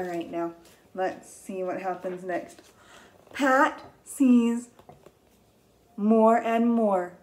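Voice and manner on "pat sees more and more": slow reading. Shown as a demonstration. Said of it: "read it with me".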